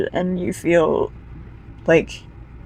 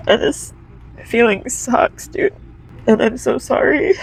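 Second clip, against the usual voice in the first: choked-up, higher voice saying sorry; tearful; 5 semitones higher than usual. Real, not acted. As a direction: push the words through real tears. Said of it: "not gonna apologize for crying".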